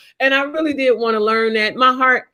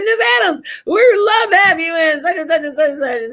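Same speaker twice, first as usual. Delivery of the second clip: recruiter's pitch; 4 semitones higher than usual. Retold or imitated. Sergeant at her door courting a recruit, pitched up and eager. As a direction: sell her on joining up.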